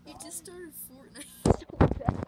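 loud, laughing through the words. Real, not acted. Friend mocking a new Fortnite player, laughing loudly. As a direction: crack up while talking.

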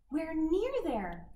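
called out. Acted. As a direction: call ahead to friends. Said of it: "called Bluebell".

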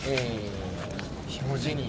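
put-on low, slow, hushed old man; creaky wise old man. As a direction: drop low and slow, remembering. Old lord reminiscing. (しわがれた老人の声)

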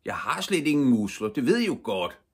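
high, loud protest; protesting boy. A narrator's reading. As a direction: plead your case loudly, pitch lifted. Ivan protests to big boys. (højlydt, lys protest)

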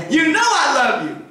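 irritated Peter. Retold or imitated. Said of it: "Peter's getting irritated now".

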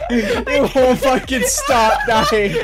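slow, wheezing through laughter; crying with laughter. Real, not acted. Player laughing to tears over endless deaths. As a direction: laugh till you tear up. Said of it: "I'm tearing up".

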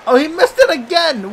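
exasperated shout. Real, not acted. Gamer yells at the teammate missing again, exasperated shout. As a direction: throw your hands up at the screen. Teammate misses a second time.

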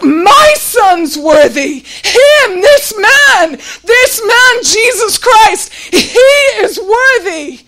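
tearful proud cry, words drawn out; a father's heart roaring for his Son; roaring response. Pretend. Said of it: "just roaring up inside of God's heart".

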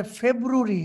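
ফেব্রুয়ারি as "feb-ROO-ri", three syllables; mocked mispronunciation. Teacher quotes a shocking video, mocking "februri". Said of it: "ফেব্রুয়ারি নাকি উচ্চারণ".

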